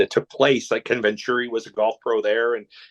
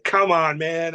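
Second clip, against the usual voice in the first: higher, punchy sportscaster call, lightly done; Chris Berman catchphrase; 5 semitones higher, slower than usual. Retold or imitated. Golfer imitating a sportscaster's catchphrase, lightly voiced. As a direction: toss off a hint of the TV catchphrase. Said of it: "get Chris Berman to say".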